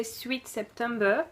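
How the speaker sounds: slow English words in a French accent. Real, not acted. Vlogger reading the box's theme aloud, French-accented English. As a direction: read the English title slowly with a French accent. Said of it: "mon accent anglais".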